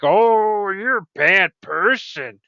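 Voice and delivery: lightly put-on prissy disapproval, drawing out words; mock scolding. Copilot account scolding a user over violence, mock scolding. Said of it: "my Copilot account to be like".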